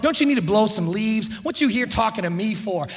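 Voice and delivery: mock self-important put-down; acted condescension. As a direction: brush off a lowly gardener. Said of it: "to Jesus like this".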